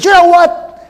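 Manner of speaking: he's had enough; frustrated outburst. Retold or imitated. Frustrated colleague turning on the stubborn scientist. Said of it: "he was so frustrated".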